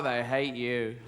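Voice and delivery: low, soft sullen aside; sullen mynah bird. Acted. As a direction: grumble it under your breath. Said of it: "They get sullen".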